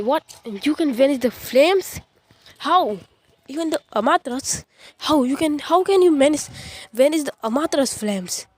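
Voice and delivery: can't believe what he just saw; rising shock at the vanished flames; stunned disbelief. Acted.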